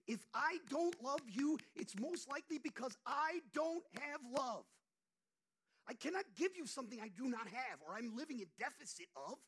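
loud, high, impassioned preaching; full-force preaching. Acted. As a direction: drive it home to the congregation.

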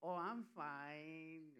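very slow, drawn-out guilty "I'm fine"; hesitant fake fine. Guilty greeter answering the pastor, slow evasive. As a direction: stretch it out like you're hiding something. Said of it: "I'd be like".

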